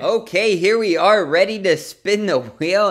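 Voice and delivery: hyped giveaway announcement. Acted. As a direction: hype up the wheel spin. Spinning prize wheel for students.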